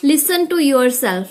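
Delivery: each word drawn out very slowly; slow heading read. Shown as a demonstration. Teacher announcing the next tip, very slowly. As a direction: let the heading sink in.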